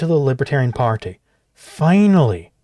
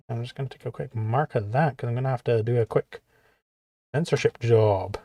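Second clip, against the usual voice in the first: much softer muttered note to self; quiet aside; 3 semitones lower, 7 dB quieter than usual. Real, not acted. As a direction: drop the voice for a side note. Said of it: "muttered aside to himself".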